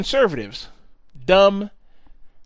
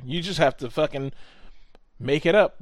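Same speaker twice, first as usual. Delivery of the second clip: shouts the last words up; a joking yell to land the punchline; shouted punchline. Real, not acted.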